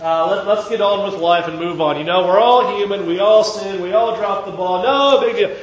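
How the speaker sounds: breezy, dismissive mock apology; flippant. What David does not say, mock-casual and dismissive. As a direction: brush the sin off casually. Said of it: "no flippant attitude here by David".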